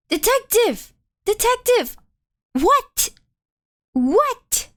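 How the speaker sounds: shouted calls. Acted.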